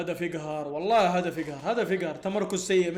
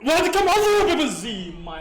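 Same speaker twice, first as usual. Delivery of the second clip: laughing disbelief; 5 semitones higher, 5 dB louder, slower than usual. Real, not acted. Laughing scolding Benzema.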